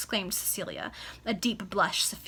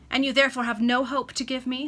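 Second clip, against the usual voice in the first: despairing; 4 semitones higher, 7 dB louder than usual. Acted. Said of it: "in a tone of despair".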